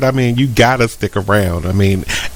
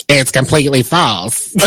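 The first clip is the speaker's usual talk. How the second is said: attempted Tyler Perry character voice; a lightly put-on comic matriarch; Madea. Host reading Tyler Perry's denial, in a put-on Madea voice. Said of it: "That was my Madea voice".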